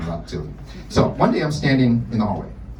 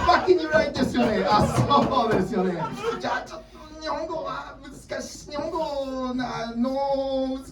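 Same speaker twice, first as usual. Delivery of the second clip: high and laughing, then falling away much softer; embarrassed teacher mumbling into silence; flustered teacher, fading; 13 semitones higher, 5 dB quieter than usual. Retold or imitated. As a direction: trail off in defeat. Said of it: "the vowels keep getting deeper".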